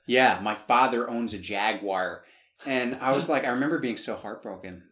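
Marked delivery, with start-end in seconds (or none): 0.1-2.2 open American accent. Shown as a demonstration. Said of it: "open your mouth and really talk like this".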